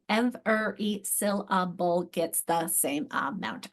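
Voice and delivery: slow, every syllable given equal weight; "every syllable" broken evenly as ev-er-y syl-la-ble; syllable-timed. Shown as a demonstration.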